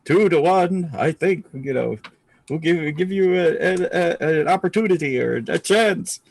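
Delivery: a hint of grand heroic proclamation, with hesitations; booming hero voice. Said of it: "said that booming voice part".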